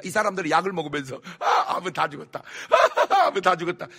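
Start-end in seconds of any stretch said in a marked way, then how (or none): 1.4-3.9 joyful laughing. Retold or imitated. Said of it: "이렇게 기쁘게".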